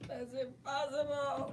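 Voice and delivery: high, drawn-out mock denial; Mark Hamill voice. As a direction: stretch it out in a high, disbelieving wail. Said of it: "The Mark Hamill voice".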